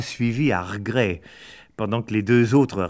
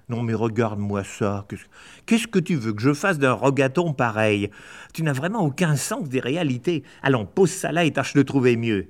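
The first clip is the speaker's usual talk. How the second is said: nagging. Acted. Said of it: "c'était des critiques".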